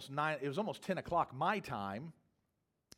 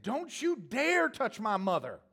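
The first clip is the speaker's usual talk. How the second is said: mock angry threat; 8 semitones higher, 5 dB louder, slower than usual. Retold drunk woman's angry threat.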